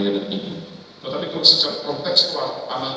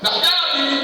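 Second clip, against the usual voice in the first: higher mock voices trading lines; light parody of child and mother, pitched up; hammed-up phone quarrel; 12 semitones higher than usual. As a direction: act both sides of a silly family call.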